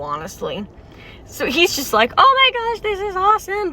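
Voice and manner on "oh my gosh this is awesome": high-pitched squeal of delight, much higher; excited gushing. Retold or imitated. Wizard Cookie thrilled by ancient artifacts, squealing high and excited. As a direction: gush over the artifacts like a thrilled kid.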